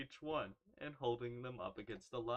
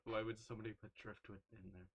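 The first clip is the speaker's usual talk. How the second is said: soft, fast puzzled retort; quiet puzzled; 5 semitones lower, 11 dB quieter than usual. Pretend. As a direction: mumble it, baffled.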